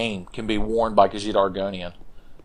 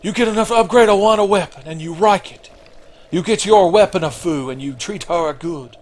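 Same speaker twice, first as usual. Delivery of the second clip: high mock Japanese accent; Miyazaki; 8 semitones higher than usual. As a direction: imitate an indignant director in a Japanese accent. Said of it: "He's like".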